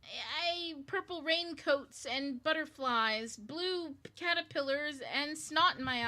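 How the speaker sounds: high, slow, sing-song nonsense verse; weird recited poem. Retold or imitated. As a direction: recite gibberish like a dreamy oracle. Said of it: "they say something like".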